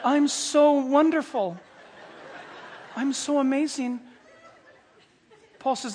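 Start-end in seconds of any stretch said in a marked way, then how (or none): 0.0-4.0 slow, higher mock self-admiration; hammed-up vanity; puffed-up conceit. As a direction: savour your own praise, stretched out. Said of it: "can't even get his head in the door".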